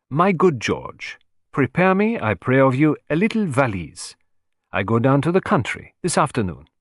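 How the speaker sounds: a hint of a grand little Frenchman summoning his servant; Poirot calling valet.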